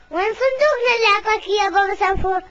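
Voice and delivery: demanding shout. Acted. Demanding where the box is.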